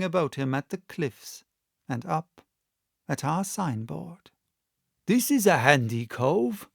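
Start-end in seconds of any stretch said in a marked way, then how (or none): 5.1-6.7 a hint of a rough old sailor; lightly voiced old captain, rough; gruff old seaman. Old seaman sizing up the inn, lightly rough. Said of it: "called roughly".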